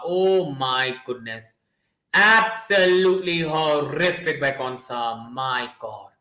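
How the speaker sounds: low, slow groaning disbelief; dismayed disbelief. Real, not acted. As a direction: shake your head at the blunder. Defender's horrible mistake.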